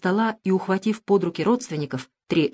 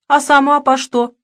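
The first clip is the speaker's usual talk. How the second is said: put-on old woman voice; 8 semitones higher, 8 dB louder than usual. Old woman asks, high voice.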